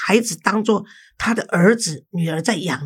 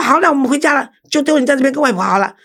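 sharp scolding in a raised voice, higher and louder; mother scolding her daughter for clinging to grandma, raised and loud; 5 semitones higher, 3 dB louder, faster than usual. Retold or imitated. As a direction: snap at the daughter, voice up and pushed. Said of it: "当场就骂这个女儿".

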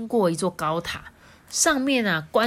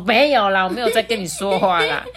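dismissive unicorn; 6 dB louder than usual. Acted. 小不角兽否认.

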